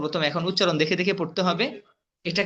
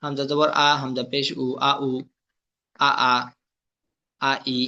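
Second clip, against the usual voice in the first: spelling drill recitation; 2 semitones lower than usual. Shown as a demonstration. Teacher drilling Arabic letters with vowel marks, chanted recitation. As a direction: recite it as a steady monotone drill.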